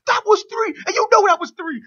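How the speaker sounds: high, loud insistent yell; retold scream. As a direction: insist on the count to the crowd. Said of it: "he's screaming at the audience too".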